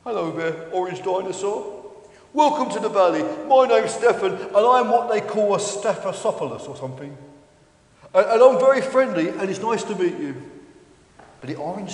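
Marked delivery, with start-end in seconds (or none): 0.0-10.3 a hint of an eager, chatty dinosaur; lightly voiced Stefan, friendly. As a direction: introduce yourself as a simple, friendly dinosaur.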